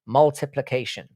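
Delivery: multiplication sounded out syllable by syllable; forced careful pronunciation. Shown as a demonstration. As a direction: push carefully through every syllable of multiplication. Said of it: "I've really got to force myself to pronounce that".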